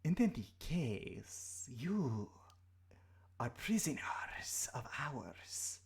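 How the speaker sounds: slow menacing serpent whisper; threatening snake creature voice. Acted.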